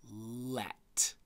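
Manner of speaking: breathy whisper, lips shaped clearly; whispered word. Shown as a demonstration. Teacher whispering a spelling word to a child, mouthing it. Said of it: "Watch my mouth".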